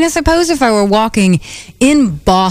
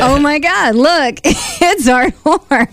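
mock excited spotting; 6 semitones higher, much slower than usual. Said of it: "I did it kind of like a goof".

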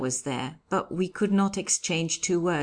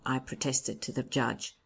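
ordinary delivery, nothing marked

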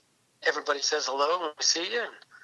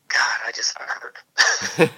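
pained whisper; 2 semitones lower, 5 dB louder, much slower than usual. Retold or imitated. Recalling the pain of hard races.

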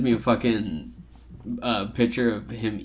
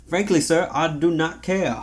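mock formality; 4 semitones higher, slower than usual. Mock-formal reply to host.

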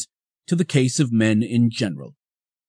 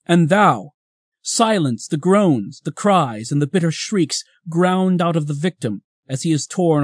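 hammy stage actor; 3 semitones higher than usual. Acted. Dramatic address to death and pain.

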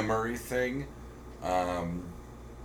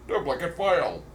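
stiff, even machine read-out; a flat automated system voice; computer voice; 5 semitones higher than usual. Retold or imitated. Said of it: "That's what my computer sounds like".

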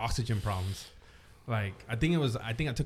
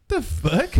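high surprised mock question; confused onlookers; 11 semitones higher than usual. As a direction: squeak it out baffled. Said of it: "they were all looking like".

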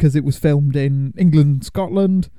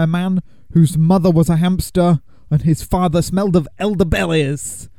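put-on French accent; 2 semitones higher than usual. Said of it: "doing the French accent".

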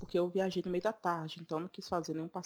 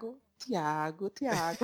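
Tiago with a hard Northeastern Brazilian "ti", not "chi"; slow, savoured Northeastern "Tiago"; Northeastern accent; much slower than usual. Retold or imitated. Showing a friend how locals say Tiago, Northeastern accent. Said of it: "E o sotaque".

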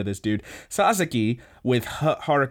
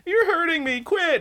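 very high squeaky mock cry; whiny falsetto. Crying Ida pushes Sasaki off, in a very high whiny falsetto. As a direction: shriek it way up in falsetto. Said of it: "And he says".

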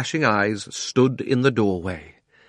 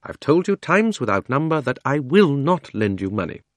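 firm aunt, pitched a little higher; firm refusal; 5 semitones higher than usual. Acted. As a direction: refuse him firmly, without shouting. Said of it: "in her firm, quiet voice".

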